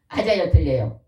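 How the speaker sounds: loud call to the congregation, 맞아요 hit hard. Real, not acted. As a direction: demand an answer from the pews, stress on 맞아요. Preacher asks congregation loudly.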